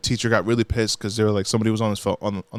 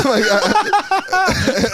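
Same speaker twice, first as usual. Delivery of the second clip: high laugh through words; cracking up; real laughter. Real, not acted.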